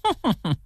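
mocking high cold chuckle; a short scornful laugh up high; hammed-up sneering laugh. A narrator's reading. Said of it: "呵呵冷笑着说".

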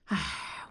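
low, soft sigh; a small drooping sigh; wistful sigh. A narrator's reading. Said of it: "燕妮悠悠地说".

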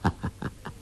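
quiet airy chuckle; soft breathy laugh. A narrator's reading. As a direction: laugh it off lightly. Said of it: "笑道". (轻声一笑)

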